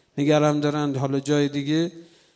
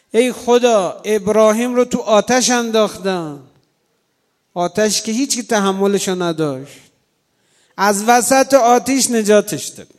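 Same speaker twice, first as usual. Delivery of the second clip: raised, impassioned prayer voice; fervent prayer; 3 semitones higher, 4 dB louder than usual. Retold or imitated. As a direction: cry out to God with rising fervour. Preacher retells fervent prayer.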